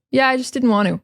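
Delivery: casual "want to" as "wan-oo", falling to a close; phrase-ending reduction. Shown as a demonstration. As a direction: run "just didn't" together, no Ts. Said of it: "when we're ending the phrase there".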